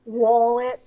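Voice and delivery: attempted British pronunciation of "Wallet"; British accent. Shown as a demonstration. Co-host demonstrates a British accent on request, British accent. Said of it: "British accent".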